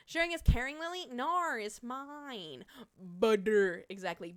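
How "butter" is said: broad Midwestern butter, louder; Midwestern accent. Real, not acted. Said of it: "I sound so Midwestern when I say that".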